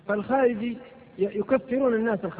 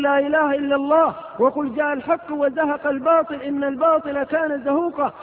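proclaiming; 3 semitones higher, 3 dB louder than usual. Retold or imitated. Voicing the Prophet at the Kaaba.

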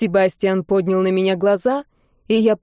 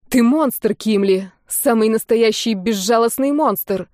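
furious accusation; slower than usual. Acted. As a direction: shout it at him in fury. Anne accuses Sebastian.

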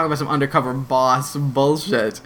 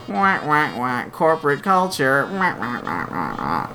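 mock sad trombone; slower than usual. Host mocks the show's corporate culture, sad trombone. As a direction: do a deflating trombone noise.

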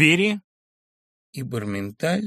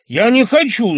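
higher, louder angry snap; spiteful refusal; 12 semitones higher, 12 dB louder than usual. Acted. Sharikov refusing to stay behind, angry and loud. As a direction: spit out the refusal in a temper. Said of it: "злобно отозвался Шариков".

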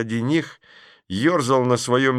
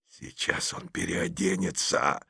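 slow whisper; 4 semitones lower, 8 dB quieter than usual. Acted. Petrov whispering the plot again.

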